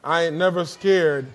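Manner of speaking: low, relaxed "I ain't never scared" with a falling end; casual wry aside. Shown as a demonstration. Preacher jokes about the title in a low, wry voice. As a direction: toss it off with a sly shrug. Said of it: "Not really".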